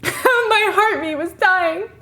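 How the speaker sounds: hammed-up tragic reread, slow and high; mock dramatic. Shown as a demonstration. Mocking her old comment, mock dramatic. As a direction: ham up the drama of the line. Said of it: "I'm being so dramatic".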